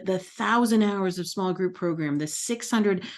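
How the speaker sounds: usual speaking voice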